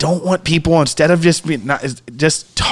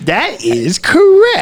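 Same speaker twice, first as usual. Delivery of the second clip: slow, high quiz host verdict; game show host voice; 10 semitones higher, much slower than usual. Acted. Quiz host confirms answer.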